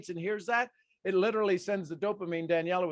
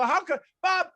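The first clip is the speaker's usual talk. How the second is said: exasperated; 6 semitones higher, 5 dB louder than usual. Retold or imitated. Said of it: "I go".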